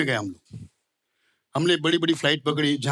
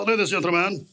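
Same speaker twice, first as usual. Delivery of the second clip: snooty air hostess; 3 semitones lower than usual. Retold or imitated. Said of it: "air hostess भी attitude में".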